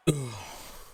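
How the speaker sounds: quick burp. Real, not acted. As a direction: let out a small burp. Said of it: "Sorry, I'm burping".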